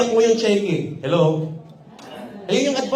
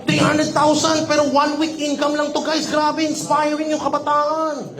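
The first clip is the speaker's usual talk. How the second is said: higher, slow gushing brag; mock boasting; 5 semitones higher than usual. Influencer bragging to guys online, slow higher mock gush.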